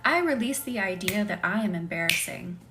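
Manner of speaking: calm, measured affirmation for others to repeat; guided healing voice, deliberate and even; spoken affirmation. Acted. Leads release affirmations.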